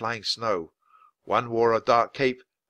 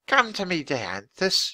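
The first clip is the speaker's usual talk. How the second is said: coaxing; 8 semitones higher, slower than usual. Acted. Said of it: "she coaxed".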